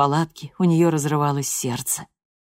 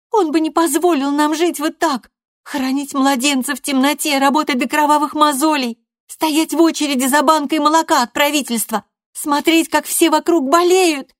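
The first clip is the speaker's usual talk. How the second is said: much higher and louder, near shouting; furious threat; 11 semitones higher, 6 dB louder than usual. A narrator's reading. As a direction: threaten her mother at full pitch. Loredo's tirade about father.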